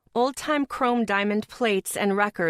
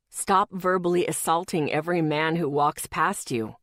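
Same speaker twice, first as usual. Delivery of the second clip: lightly voiced boyfriend; 2 semitones lower than usual. Boyfriend's voice on phone.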